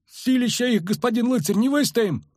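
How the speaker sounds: high, desperate wail; panicked protest. A narrator's reading. Soldier tells knight they cannot hold, panicking. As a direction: plead that it is hopeless.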